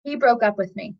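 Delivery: understated bad news. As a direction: state the bad news with a touch of letdown. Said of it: "But life does this".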